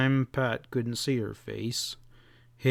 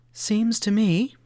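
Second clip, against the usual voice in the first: higher, louder and slow; strong emphasis; 9 semitones higher, 4 dB louder than usual. Acted. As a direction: say it strongly, drawn out. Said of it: "said Sally strongly".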